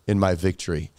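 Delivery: a touch of a smug villain taking a bow; sinister sarcasm. Acted. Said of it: "it's sarcastic and it's sinister".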